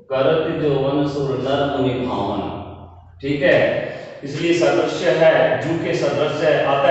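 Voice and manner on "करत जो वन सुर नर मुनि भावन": slow, measured reading of a chaupai; slow verse recital. Shown as a demonstration. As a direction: recite the verse line slowly. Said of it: "यहाँ पे जोर भी नहीं पड़ रहा है". (धीमे स्वर में चौपाई पाठ)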